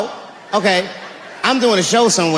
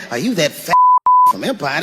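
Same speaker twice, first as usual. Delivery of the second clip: white guy voice. Retold or imitated. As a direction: say it the way white guys talk. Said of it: "They don't talk like that".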